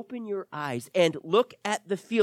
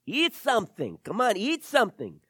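nagging mom; 4 semitones higher than usual. Retold or imitated. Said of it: "You ever had your mom come".

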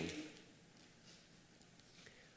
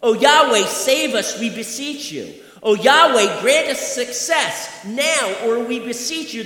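urgent plea; 4 semitones higher, 4 dB louder than usual. Retold or imitated. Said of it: "sense of urgency in what they're shouting".

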